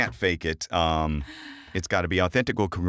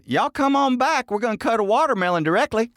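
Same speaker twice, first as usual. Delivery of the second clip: high, quick country holler; folksy Southern saying; 13 semitones higher, 3 dB louder than usual. Pretend. Host inviting y'all back for watermelon, high quick Southern accent. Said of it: "I got a bunch of 'em".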